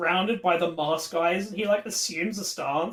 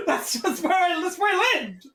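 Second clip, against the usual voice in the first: laughing through it; 9 semitones higher than usual. Retold or imitated. Acting out captive laughing.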